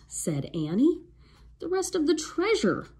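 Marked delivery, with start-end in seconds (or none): 1.6-2.9 high roaring pirate captain. A narrator's reading. Pirate captain roars at the children about treasure. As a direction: roar it at the kids. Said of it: "roared Captain Bones".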